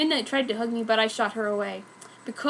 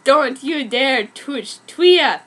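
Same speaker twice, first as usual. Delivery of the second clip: warning snarl; 5 dB louder, slower than usual. Acted. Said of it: "snotted Ed".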